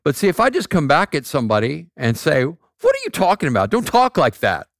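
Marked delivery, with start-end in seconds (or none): 2.5-4.7 acted scolding, a little higher; mock curt rebuke. Coming back at somebody about their talk, acted ungentle rebuke. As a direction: demonstrate an ungentle comeback, mildly heated. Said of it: "I'm not being gentle and courteous and kind".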